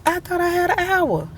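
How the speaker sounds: high mock-surprised voice. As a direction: squeak it out in disbelief. Mimicking surprised self, far high.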